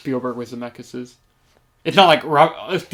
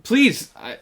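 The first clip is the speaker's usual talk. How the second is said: exasperated plea; 2 semitones higher, slower than usual. Real, not acted. Podcaster begging filmmakers to drop Tom Hanks accents, exasperated plea. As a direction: plead slowly, stressing each word.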